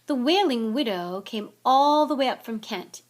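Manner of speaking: loud, emphatic boasting; proud. A narrator's reading. Nick boasting of who came to his party, proud. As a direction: boast about an important guest. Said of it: "said Nearly Headless Nick proudly".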